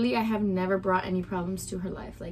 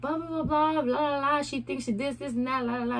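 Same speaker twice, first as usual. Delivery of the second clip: higher-pitched babbling imitation; mock ranting; 5 semitones higher than usual. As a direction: rattle off her rant as mocking blah-blah. Mimics the other woman's ranting.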